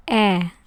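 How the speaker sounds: "e" said as a short open eh; soft Italian e. Shown as a demonstration. Teacher demonstrates the soft Italian E, short and clear. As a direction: show the soft Italian vowel sound. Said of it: "is a soft E".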